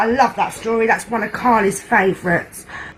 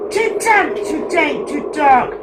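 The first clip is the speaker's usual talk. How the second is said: squeaky mouse; 3 semitones higher than usual. Acted. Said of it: "Mouse squeaks".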